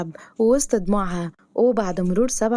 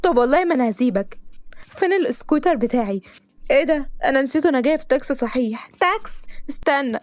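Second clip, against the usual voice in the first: outraged cry; 5 semitones higher than usual. Acted. Girl yelling after the driver who crushed the turtle. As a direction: shout after the car in disbelief.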